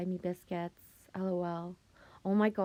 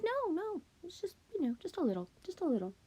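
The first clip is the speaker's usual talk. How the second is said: imitating sister; 11 semitones higher, 3 dB quieter, faster than usual. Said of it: "And she's like".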